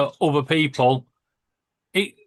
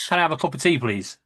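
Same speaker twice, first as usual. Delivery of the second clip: polite request; faster than usual. Retold or imitated. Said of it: "And I just hear".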